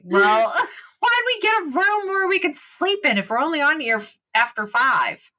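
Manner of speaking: laughing complaint. Real, not acted.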